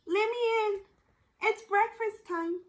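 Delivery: high sweet put-on voice; wolf keeps up his fake little-girl voice; faked child voice. Wolf still pretending at the door, high and sweet.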